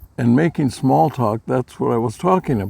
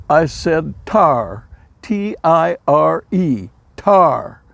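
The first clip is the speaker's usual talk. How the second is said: slow, drawn-out Southern twang, higher pitch; southern drawl; 4 semitones higher, 3 dB louder, much slower than usual. Retold or imitated. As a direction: mimic his wife's exasperated Southern accent. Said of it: "and she says".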